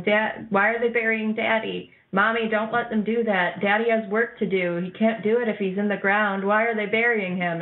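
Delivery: a hint of a child questioning her mother; pleading little daughter. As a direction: plead like a confused small daughter. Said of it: "his daughter is going".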